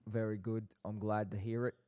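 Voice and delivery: lightly put-on South London accent; brief reply in a South London accent. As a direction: keep up the South London act. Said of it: "do it for an entire farewell".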